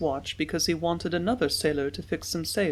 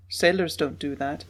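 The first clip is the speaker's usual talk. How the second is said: ordinary delivery, nothing marked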